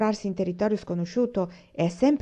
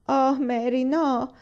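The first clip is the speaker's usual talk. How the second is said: higher horrified exclamation; appalled cry, raised in pitch; 6 semitones higher, much slower than usual. A narrator's reading. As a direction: protest in shock at what was said. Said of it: "esclamò una inorridita".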